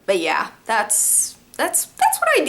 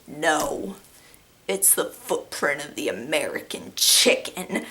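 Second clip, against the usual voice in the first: put-on old man voice; 7 semitones lower, 6 dB quieter, slower than usual. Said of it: "He's like".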